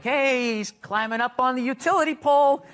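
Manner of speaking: pointed public call-out, half-shouted; mock loud complaint. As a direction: loudly announce it for other parents to hear. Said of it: "be loudly like".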